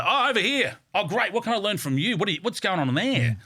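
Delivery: high-pitched, eager calling out; mock yelling. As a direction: call across the room, without full volume. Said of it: "I want people to yell".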